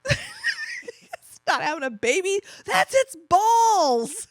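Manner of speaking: slow words through helpless laughter; laughing. Retold or imitated. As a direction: say it while cracking up. Dad laughing at her.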